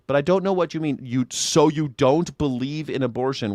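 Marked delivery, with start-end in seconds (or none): 1.3-3.5 slow snide question. Retold or imitated. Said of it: "What the fuck does that sentence mean".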